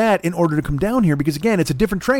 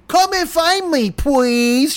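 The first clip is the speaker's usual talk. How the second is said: put-on high, slow singsong kid voice; high, drawn-out childish plea; mock runaway child; 7 semitones higher, much slower than usual. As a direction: taunt like a child hiding. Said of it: "what you should have just typed".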